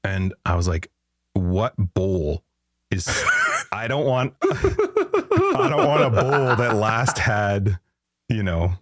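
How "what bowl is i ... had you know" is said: laughing through the words; can't get it out for giggling. Real, not acted. Telling his wife, laughing at the puke bowl. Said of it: "I was laughing to my wife".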